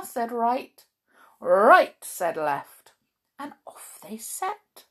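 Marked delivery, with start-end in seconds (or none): 1.4-2.0 squeaky boot voice. Acted. Boot answers loudly.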